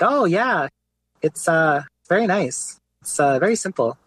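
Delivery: a hint of thick French-Canadian accent, retold; Marc-Andre Fleury. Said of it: "he has a really thick Quebecois, like, accent".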